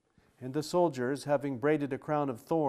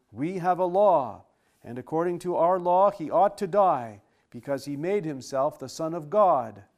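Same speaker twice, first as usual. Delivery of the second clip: insistent accusers; 3 semitones higher, 7 dB louder than usual. Acted. Accusers insisting before Pilate.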